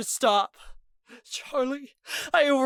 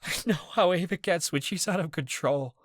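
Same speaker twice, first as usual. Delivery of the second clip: high, loud tearful pleading; crying; 11 semitones higher, 5 dB louder than usual. A narrator's reading. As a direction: sob it out to the friend. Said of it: "Ez cried harder".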